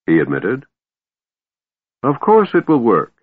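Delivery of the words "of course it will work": lazy, yawning confidence; languid yawn. A narrator's reading. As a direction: toss it off mid-yawn. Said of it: "yawning and stretching languidly".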